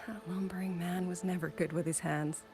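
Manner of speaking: whispered, affectionate teasing; hushed loving remembrance; fond whisper. Acted. Fond memory of late husband.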